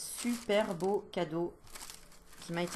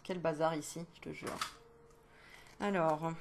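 normal talking voice

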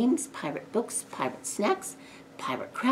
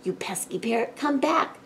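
mock yell, pitched up; calling after; 7 semitones higher than usual. A narrator's reading. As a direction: call after a runaway pet. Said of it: "cried Jake".

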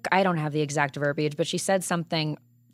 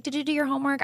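much higher, imitated parental checking-up; mock dad mode; 8 semitones higher, faster than usual. Co-host mocking the bachelor as a parent, dad-mode voice. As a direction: mimic a doting dad quizzing a child. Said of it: "gets into dad mode".

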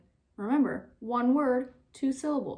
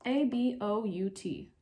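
slow spelling out. Shown as a demonstration. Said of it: "your board should say".

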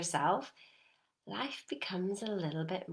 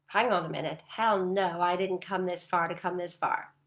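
louder, defiant pushback; mock firm resolve; 2 semitones lower, 4 dB louder than usual. Inner resolve answering the urge to quit, firm and louder. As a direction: dig in and refuse to quit.

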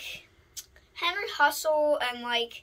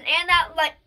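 words cut by hiccups; hiccuping as he finishes. Real, not acted. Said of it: "Got the hiccups".

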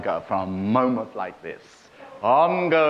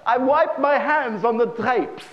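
deadpan punchline; 13 semitones higher, 4 dB louder than usual. Retold or imitated. Punchline, Jew answers.

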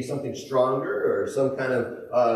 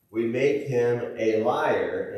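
slow reading; 5 semitones lower, much slower than usual. Acted. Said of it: "slow scripture reading".

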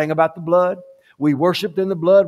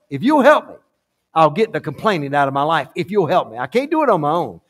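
retold pleading prayer. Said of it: "I kneeled down and I said".

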